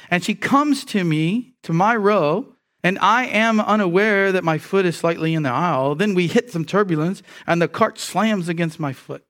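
lively, mildly dramatic anecdote reading; vivid storytelling. Acted. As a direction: make the story come alive, pitch lifted. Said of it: "to make the story more vivid".

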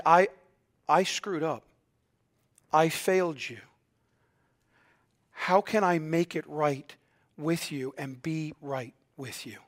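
low, quiet, earnest apology; sincere apology. Acted. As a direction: own up softly, pausing between admissions.

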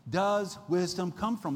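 loud, slow, exasperated question. Acted. Preacher reading Job's question to the congregation, exasperated. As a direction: press it out slowly, at the end of your patience. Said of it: "this kind of exasperated tone".

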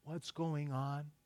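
soft, slow whispered-like plea to the Lord; slow, soft retold prayer; quiet prayer. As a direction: murmur a quick prayer under your breath. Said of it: "So I immediately say".

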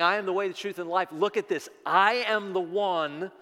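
emphatic, loud claim; impassioned proclamation. Acted. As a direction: declare it as Jesus, slowing on the last phrase. Preacher proclaims as Jesus.

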